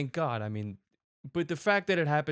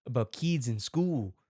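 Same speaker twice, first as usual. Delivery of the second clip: mock Australian video maker; bad Australian accent; 3 semitones lower than usual. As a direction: put on a clumsy Australian accent. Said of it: "the worst Australian accent".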